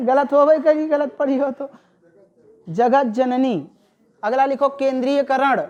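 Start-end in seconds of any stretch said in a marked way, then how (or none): 0.0-1.7 laughing. Real, not acted. Teacher laughs at mistake.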